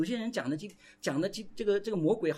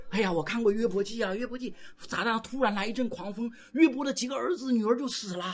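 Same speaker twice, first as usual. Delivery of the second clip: lightly higher, fretting voice; mock fearful believer; 4 semitones higher than usual. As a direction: parody someone praying over every bus ride. (嘲讽式模仿担惊受怕的信徒)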